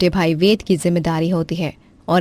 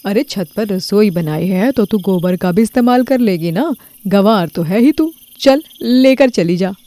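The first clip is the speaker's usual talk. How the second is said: taunting neighbour. Acted. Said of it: "पड़ोसन की बात पायल को काफी ज्यादा बुरी लगती".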